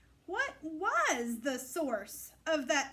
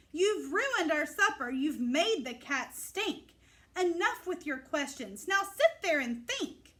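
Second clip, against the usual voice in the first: scolding. Acted. Frazzled parents scolding Ada over the ruined supper, annoyed. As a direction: lay down the law.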